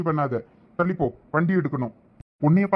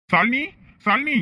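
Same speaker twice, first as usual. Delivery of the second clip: calling out; 8 semitones higher, 3 dB louder, slower than usual. Acted. Calling to wife walking away.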